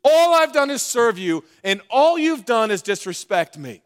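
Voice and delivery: loud, building, incredulous rant; ticked off rant. Acted. Preacher voices the bitter older son, loud ranting anger. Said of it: "he is ticked off".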